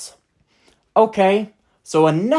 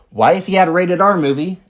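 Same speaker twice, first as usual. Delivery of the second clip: laughing. Real, not acted. Laughs at his own disbelief.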